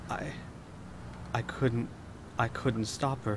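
very shaky voice. A man looking down, barely responding, finally speaks in a very, very shaky voice. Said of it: "he says in a very, very shaky voice".

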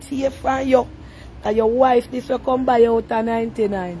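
ordinary delivery

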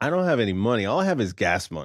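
ordinary talk

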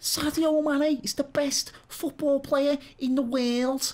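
put-on over-the-top, thick Scouse accent, high and shrill. Describing a guy in a video, the speaker quotes him: imitating a plazzy Scouse accent. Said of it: "that guy's got like a proper plazzy Scouse accent".

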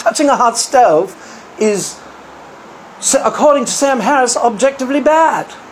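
put-on English accent. Retelling what a man said about a hot stove, in an english accent. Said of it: "I gotta do an English accent".

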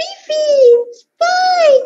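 put-on small baby voice, very high-pitched. Showing off a range of voices, the speaker does the last one: small baby voice. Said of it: "the baby is just like a baby with a small voice".

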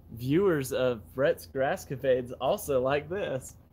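ordinary talk, nothing marked

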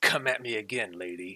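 snickering laugh, then spoken line. Narrating a scene, the destroyer soldier speaks to a lady: snickering taunt, Duke Nukem voice. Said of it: "he snickers and he says".

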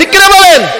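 high, loud calling out.

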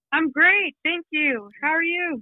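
eager, upbeat excitement. A guest on the line answers the interviewer's greeting: enthusiastic. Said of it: "so much enthusiasm in your voice".

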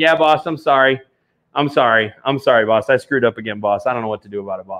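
apologetic, sorry-sounding put-on voice. Joking about a bobblehead that apologizes to the boss: imitating Jared apologizing. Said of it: "a Jared bobblehead that's just saying".

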